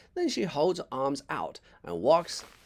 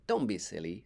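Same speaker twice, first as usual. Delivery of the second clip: a slightly lower, gentle motherly tone; mom's voice; 5 semitones lower than usual. Acted. Mom comforting Jack, lightly voiced. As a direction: soothe him, not tease.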